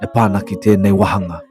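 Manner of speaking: sexy voice. Pretend. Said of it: "push your sexy button voice".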